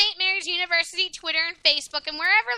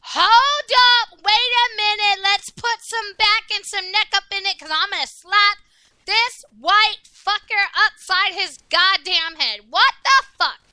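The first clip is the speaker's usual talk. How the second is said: angry; 2 semitones higher, 5 dB louder than usual. Real, not acted. Furious rant about strawberry guy.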